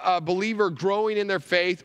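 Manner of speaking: usual speaking voice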